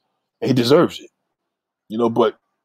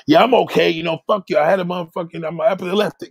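mock annoyed reply; 5 semitones higher than usual.

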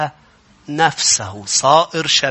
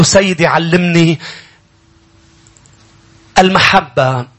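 slow prayer; 4 semitones higher, 6 dB louder than usual. Shown as a demonstration. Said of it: "هيك جميعًا قل له".

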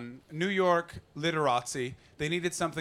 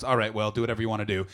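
fast, lower brush-off; dismissive director; 6 semitones lower, faster than usual. Retold or imitated. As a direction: wave him off in a hurry. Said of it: "he goes".

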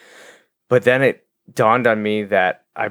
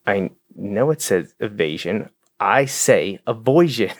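light Kent Brockman impression. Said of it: "He's like".

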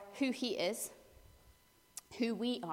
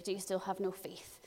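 softer gentle rebuke; 3 semitones lower, 6 dB quieter than usual. Acted. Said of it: "not quite as harsh as it sounds".

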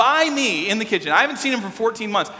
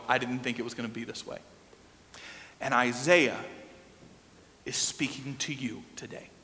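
low, hushed and grave; quiet, measured pastoral seriousness; solemn, tender; 6 semitones lower, 6 dB quieter than usual. Real, not acted. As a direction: drop low and soft for the painful truth. Preacher turns solemn about painful stories.

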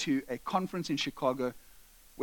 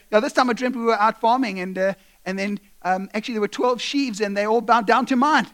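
put-on raised, loud, eager boy; eager telling; 3 semitones higher, 6 dB louder than usual. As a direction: rattle off the dream with pride. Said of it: "He says".

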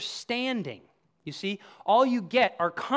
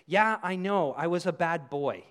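light, glib admission of fault; downplaying. Offender admitting to serious wrong, downplaying. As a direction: toss off a confession as if it were minor. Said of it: "trying to hide and downplay it".

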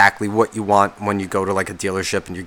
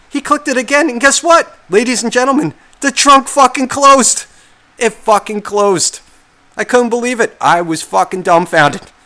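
sarcastic awe; 11 semitones higher, 5 dB louder than usual. Acted. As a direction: announce it like a miracle. Sarcastic amazement at trunk closing.

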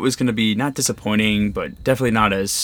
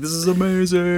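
laugh screaming; 8 semitones higher than usual. Retold or imitated. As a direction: imitate yourself squealing through laughter on a ride. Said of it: "laugh screaming".

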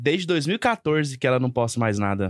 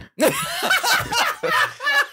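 shrieking laugh. Real, not acted. Big laugh after joke.

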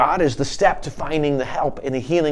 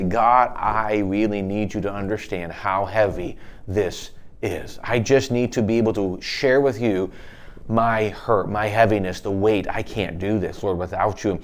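low, halting plea, sinking softer; burdened prayer; 4 semitones lower, 3 dB quieter than usual. Acted. Preacher voices an overwhelmed believer praying on his knees, subdued pleading. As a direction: confess the weight quietly, pausing between phrases.

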